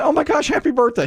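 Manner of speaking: high-pitched mock excitement; imitated gushing anchor. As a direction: gush like a TV anchor, hammed up. Acting out female anchor's reaction.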